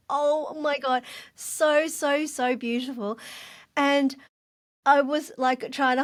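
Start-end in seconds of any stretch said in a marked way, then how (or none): 0.1-3.2 higher, tearful awe at the pink castle; choked-up gushing wonder; overcome with emotion. Retold or imitated. Mum weeping at the Paris castle, tearful awe. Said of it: "I literally just wept".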